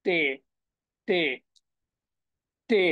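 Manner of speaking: টে with a long "ay" vowel; German-style টে, vowel held; German letter name টে. Shown as a demonstration. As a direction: say টে as German T, "teh". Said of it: "তারা বলতেছে কিন্তু টে".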